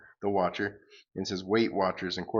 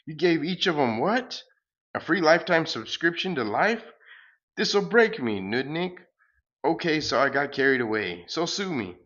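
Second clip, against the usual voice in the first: higher, louder huffy villain; exasperated cosmic salesman; 5 semitones higher, 5 dB louder than usual. Acted. Galacticus scolding the hero for giving life away, higher huffy voice. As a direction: rant like a cheated space huckster.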